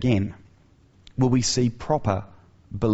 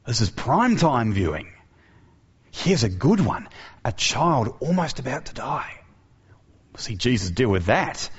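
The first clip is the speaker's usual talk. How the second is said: gawking crowd. Retold or imitated. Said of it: "the eyes of the crowd light up".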